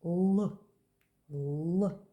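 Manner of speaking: L said hard and loud, tongue on the upper teeth; a firm English L. Shown as a demonstration. Teacher showing the hard English L. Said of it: "Push your tongue against the upper teeth".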